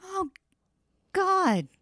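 a horrified "God" that jumps high; shocked. Real, not acted. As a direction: react in shock. Shocked reaction to the story.

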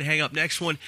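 normal talking voice

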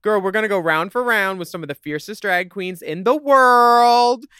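loud, hyped promo read; hype host. Acted. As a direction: pump up the crowd. Hyping the show like a host.

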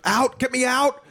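hammed-up child yelling out; mock panicked child. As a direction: squeal it like a grossed-out little girl. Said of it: "another daughter who would be like".

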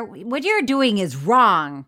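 slow, emphatic telling-off; hammed-up stern citizen, word by word; mock stern scolding. Host playing a citizen confronting a wrongdoer, mock stern scolding.

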